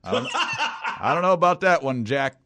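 lightly laughing district attorney impression; mock DA voicing his doubts; Fred Thompson. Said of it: "find an old clip of, uh, Fred Thompson when he was the D A going".

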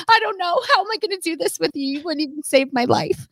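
lightly hammed-up exasperation; Vince Vaughn. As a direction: rattle off the reproach, easing down. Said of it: "I'm, like, Vince Vaughning him".

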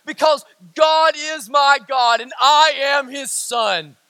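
booming slow creed; shouted declaration. Real, not acted. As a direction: proclaim it as a shout. Preacher's answer to imagined question.

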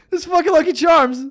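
this fucking Lucky Charms shouted in disgust; fired-up rant. Real, not acted. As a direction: hit it again with real heat. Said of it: "I'm fired up right now".

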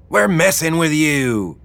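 high-pitched teasing boss woman; teasing Wilma. Acted. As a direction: tease them after the prank in a high voice. Wilma reveals the prank.

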